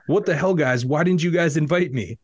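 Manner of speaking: understated fake anger at being left out; mock furious. Rick Adelman complains he wasn't invited, mild mock fury. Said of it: "he grunted furiously".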